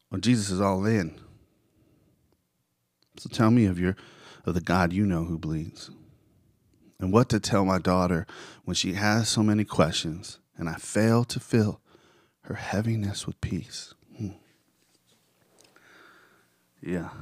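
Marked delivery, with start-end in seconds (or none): 3.2-13.9 spoken-word recital of lyrics; poetic recitation. Acted. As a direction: recite it with measured, rising and falling lines. Recites song lyrics to listeners.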